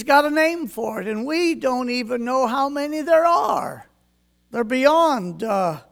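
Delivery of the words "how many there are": real small crack on the last word. Real, not acted. Preacher marveling at the count of stars, voice cracking. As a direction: voice catches and cracks on "are". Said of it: "my voice kinda cracked".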